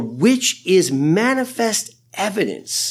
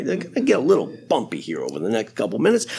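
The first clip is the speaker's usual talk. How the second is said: calm pilot announcement; 5 semitones lower, 3 dB quieter, faster than usual. Retold or imitated. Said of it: "he says it in that kind of voice".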